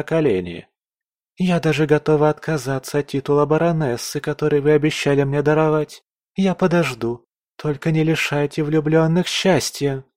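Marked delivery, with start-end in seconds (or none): 1.4-10.0 put-on high girlish voice, eager and pleading; a giddy girl begging the emperor; young court lady. A narrator's reading. Geraldina begs the emperor for the duke, high and eager.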